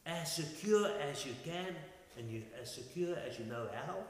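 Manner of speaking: puzzled echo, rising into a question; bewildered. Retold or imitated. Men glancing at each other after Pilate's order, bewildered. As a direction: repeat it as if baffled by the order. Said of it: "bewildered and puzzled".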